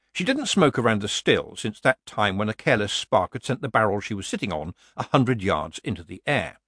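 plain reading voice

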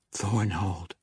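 soft, breathy whisper. Acted. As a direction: hush it to yourself. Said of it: "the halfling whispered".

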